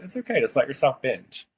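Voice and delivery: nonchalant. Retold or imitated. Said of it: "in the most nonchalant way said".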